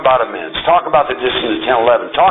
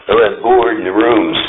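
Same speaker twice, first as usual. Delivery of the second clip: slow, lower-pitched mock boredom; mock bored complaint; 4 semitones lower than usual. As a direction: imitate a bored member griping, dragging it out. Mimics a bored member's complaint.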